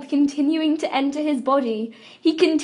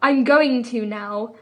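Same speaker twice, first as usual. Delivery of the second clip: a little harder; 2 semitones lower, slower than usual. Acted. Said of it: "voice a little harder this time".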